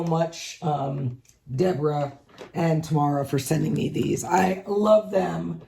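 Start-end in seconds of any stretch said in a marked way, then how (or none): 4.2-5.6 slightly rough, throat needing clearing; husky catch in the throat; frog in throat. Real, not acted. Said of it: "I have a little frog in my throat".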